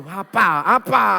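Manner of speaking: loud, drawn-out confrontational demand; hammed-up aggressive roar; mock fierce challenge. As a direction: act out a ferocious spouse squaring up. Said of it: "ganasnya bukan main nih".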